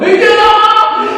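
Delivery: high, loud, drawn-out prophet's cry; booming street-preacher Noah; ringing call to repent. Retold or imitated.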